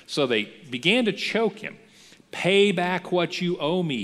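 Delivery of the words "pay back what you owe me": louder, higher, slow harsh demand. Retold or imitated. Servant choking his fellow servant for the debt, harsh demand. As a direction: squeeze the debt out of him. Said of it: "he demanded".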